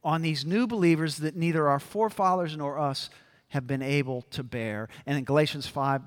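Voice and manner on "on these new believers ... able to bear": Peter pleading. Retold or imitated. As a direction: demand it of the apostles. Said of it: "Peter stands up and says".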